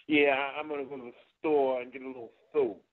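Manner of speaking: "soap" held out long and leaned on at the end; Dusty soap stress. Shown as a demonstration. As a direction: drag out "soap" as the last word. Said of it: "he'll hold it out a little longer".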